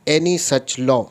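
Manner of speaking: slow, deliberate reading of the law; reading statute aloud. Shown as a demonstration. Lecturer reads the article to his students, slow and deliberate. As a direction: read every word out like a legal text.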